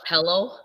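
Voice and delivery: "pillow" said as pellow; "pillow" with an eh vowel, like PELL-oh; classmate's "pillow". Retold or imitated. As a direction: swap the short i in "pillow" for eh. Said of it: "one of the girls used to say".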